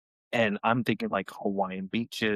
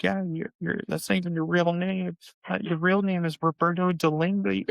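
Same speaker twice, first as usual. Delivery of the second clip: mock sibling taunt; 8 semitones higher than usual. Sister teasing crying brother.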